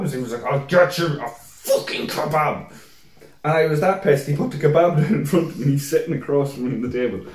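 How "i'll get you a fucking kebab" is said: slow, emphatic retold retort; drawn-out exasperation. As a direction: stretch out each word, fed up. Exasperated friend's reply, retold.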